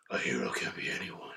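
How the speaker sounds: very low, hushed hero voice; awful movie-hero impression. Shown as a demonstration. Testing hosts on a movie quote, low whispered impression. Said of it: "I do an awful impression".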